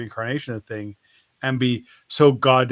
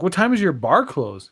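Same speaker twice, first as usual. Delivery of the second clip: raised, louder challenge; incredulous; 4 semitones higher, 5 dB louder than usual. Acted. Shark questioning the bartender about hours, incredulous. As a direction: demand an answer in mock disbelief.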